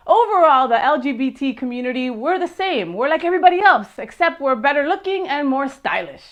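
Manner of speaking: a hint of a stand-up comic delivering a punchline; a loose, hammed-up take on her bit; Wanda Sykes impression. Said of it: "That was comedian Wanda Sykes".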